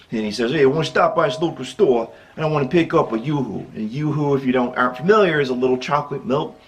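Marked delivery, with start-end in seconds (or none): 0.5-3.7 imitating a New York Italian friend; New York accent. Friend announcing a store stop, New York accent.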